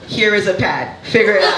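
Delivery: put-on curt Haitian-accented mother. Mother handing daughter a pad, curt Haitian accent. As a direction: dismiss the child in a light Haitian accent. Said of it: "I'm gonna do the accent".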